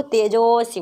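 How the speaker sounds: तेजोसी with a held ओ; long-vowel demonstration. Shown as a demonstration. Teacher showing how it is pronounced, तेजोसी with a drawn-out जो. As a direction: lengthen the जो in तेजोसी. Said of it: "इसका उच्चारण कुछ अध्वनियाँ निकलता है".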